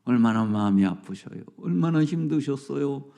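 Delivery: low, soft consoling murmur; soft tender sympathy; sympathetic. Shown as a demonstration. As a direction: comfort a grieving friend gently. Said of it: "공감하면 돼".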